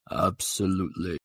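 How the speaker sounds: lightly deepened god voice; Mister Bub. Acted. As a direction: answer grandly, drawing it out. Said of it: "It's like God".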